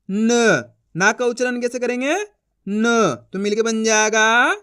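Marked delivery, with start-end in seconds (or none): 0.1-0.6 न as a bare "n" sound; न said as "nnh"; half-pronounced letter. Shown as a demonstration. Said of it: "last वाला अक्षर का उच्चारण आधा करेंगे". 2.7-3.1 न as a bare "n" sound; न said as "nnh"; half-pronounced letter. Shown as a demonstration. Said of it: "last वाला अक्षर का उच्चारण आधा करेंगे".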